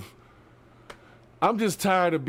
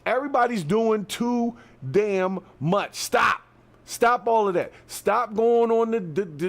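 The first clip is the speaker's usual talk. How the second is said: raised, fed-up commands to stop; frustrated yelling; 2 semitones higher than usual. Real, not acted. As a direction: hammer each stop like you've had enough. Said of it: "I'm out here yelling".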